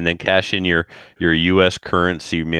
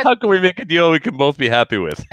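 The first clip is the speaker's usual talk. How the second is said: slick used car salesman; 9 semitones higher than usual. Retold or imitated. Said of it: "talking like a used car salesman".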